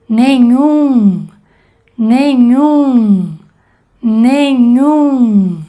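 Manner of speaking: nenhum with nasal um at the end; nasal vowel demo. Shown as a demonstration. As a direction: let nenhum ring in the nose. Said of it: "como por ejemplo". (vocal nasal en nenhum)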